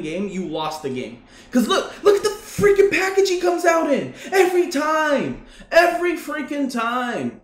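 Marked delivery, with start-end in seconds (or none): 1.5-7.4 high, laughing complaint; real laughter through the gripe; exasperated laughing. Real, not acted. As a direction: laugh in disbelief at the play.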